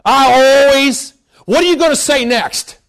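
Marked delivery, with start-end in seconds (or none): 0.0-1.1 slow, louder "I always"; slow mock grumble; drawn-out complaint. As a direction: stretch the whine of a habitual complaint. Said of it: "when you get ready to say".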